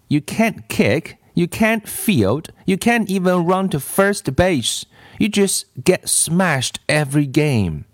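mildly acted exasperation; exasperated scolding. A narrator's reading. Louis scolds Ron after game.

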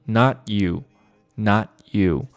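not you with the t held back unreleased; half T. Shown as a demonstration. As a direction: stop the t of not without popping it. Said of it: "T呢读成半音".

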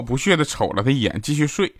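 usual speaking voice

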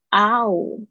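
"啊呜" as two vowels gliding ah to oo; two-part diphthong. Shown as a demonstration. Teacher explains the OU sound, two-part "啊呜". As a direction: sound out both halves of "啊呜". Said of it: "它有点像是啊呜两个".

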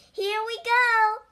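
high, loud launch cry; gleeful story-time shout; excited call. A narrator's reading. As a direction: call out as the sled takes off. Frog launches the sled downhill.

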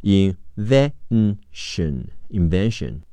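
"invention" slowly in pieces with VEN stressed, then whole; stress on second syllable. Shown as a demonstration. Teacher models invention for learners, stress on VEN. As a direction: hit VEN in "invention", broken up first, then joined. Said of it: "重音在V".

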